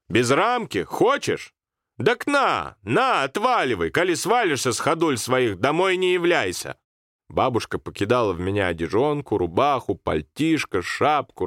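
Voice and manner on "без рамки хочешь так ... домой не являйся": put-on much higher, scolding old woman; angry grandmother. Grandmother angrily lets the boy go, much higher. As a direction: throw the clothes at him.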